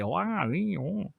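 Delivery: a playful Minnesota "oh, ah, eh" lilt; Minnesota accent. Retold or imitated. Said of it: "That's what they sound like".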